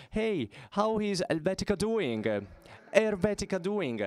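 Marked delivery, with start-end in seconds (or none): 0.1-2.2 light Roman dialect, raised and cheery; a hint of Roman dialect, calling across the room. Tennis friend greeting him across the locker room in mild Roman dialect. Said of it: "with a Roman dialect he says".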